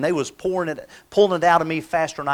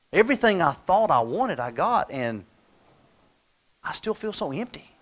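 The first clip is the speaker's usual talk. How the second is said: much softer, hollow self-talk; man alone with his success, soft and defeated; empty and deflated; 3 dB quieter than usual. Retold or imitated. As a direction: sigh it out like nothing fills you. Successful but empty inside.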